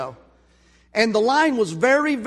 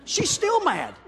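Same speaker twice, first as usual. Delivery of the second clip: amused aside; 9 semitones higher, slower than usual. Real, not acted. Laughing aside at the driver.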